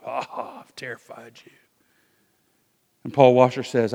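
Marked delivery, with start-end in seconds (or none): 0.1-1.5 smug mocking. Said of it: "the police officer kinda puffs up".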